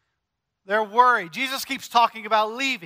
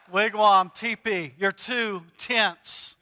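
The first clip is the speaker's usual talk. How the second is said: slow pun explanation; slower than usual. Shown as a demonstration. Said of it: "I'm explaining them".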